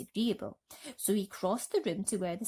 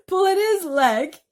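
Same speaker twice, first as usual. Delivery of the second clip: higher, louder gleeful cry; cried; 11 semitones higher, 13 dB louder, slower than usual. Acted. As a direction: crow with glee. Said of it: "he cried".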